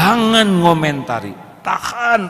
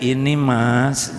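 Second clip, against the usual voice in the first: meek calm reply; much slower than usual. Retold or imitated. Wife calmly answering husband.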